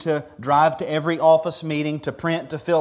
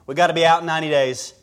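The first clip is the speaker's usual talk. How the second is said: calling out to the next room; yelling across the room; 5 semitones higher, 5 dB louder than usual. Pretend. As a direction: shout it across the house. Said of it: "yell across the house".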